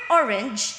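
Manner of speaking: "orange" with the opening syllable leaned on; stress on first syllable. Shown as a demonstration. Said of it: "the stress is on the first".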